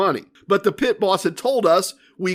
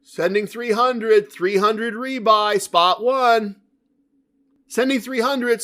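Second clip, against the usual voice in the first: dealer call-out; 5 semitones higher, slower than usual. Retold or imitated. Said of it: "the dealer is saying".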